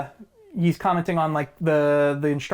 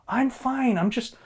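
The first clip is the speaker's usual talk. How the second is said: creepy teacher; 5 semitones higher than usual. Retold or imitated. Creepy teacher voiced in retelling.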